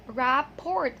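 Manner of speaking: "Rapport" in two parts, RAP-port; spelling pronunciation. Shown as a demonstration. Teacher reading the word as it looks, spelling pronunciation. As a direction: say "Rapport" as it is spelt. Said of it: "It looks like that".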